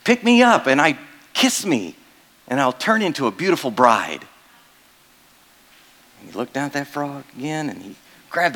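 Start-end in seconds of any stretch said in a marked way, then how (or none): 0.0-0.7 a tiny frog begging to be picked up; high cartoon frog, pleading and louder; talking frog. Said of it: "And the frog says". 0.7-4.3 lightly voiced frog. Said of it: "And the frog says".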